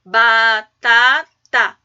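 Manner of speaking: batata split slowly into ba-ta-ta; syllable by syllable. Shown as a demonstration. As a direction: say batata one syllable at a time, drawn out. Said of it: "A cada emissão, a cada impulso da minha voz, eu separei a sílabas". (batata sílaba por sílaba, bem devagar)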